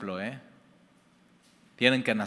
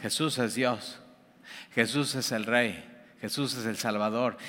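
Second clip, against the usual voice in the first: softer repeat, like an echo; quieter echo; 2 semitones lower, 5 dB quieter than usual. Retold or imitated. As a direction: answer back more softly, as an echo. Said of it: "y es un eco".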